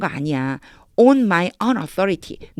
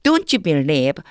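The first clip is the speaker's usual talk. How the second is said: very slow, word by word, leaning on don't; slow first reading; 3 dB louder, much slower than usual. Shown as a demonstration. Teacher reading the verse to the class, very slow and careful. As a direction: spell out each word slowly for the learners. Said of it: "자, 다시 한번 해볼게요".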